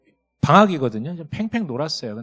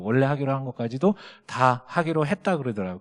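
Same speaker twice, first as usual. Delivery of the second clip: ordinary talk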